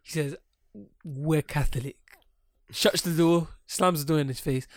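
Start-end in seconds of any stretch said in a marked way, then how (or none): 1.0-2.0 firm, full-voiced brush-off; curt refusal. Man to Jehovah's Witness at his door, curt. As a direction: turn them away firmly. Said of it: "stands up so aggressively".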